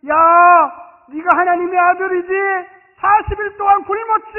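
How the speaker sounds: loud, high taunting call; mock tempter. Preacher voicing Satan taunting Jesus, loud and high. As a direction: taunt him like Satan on the temple.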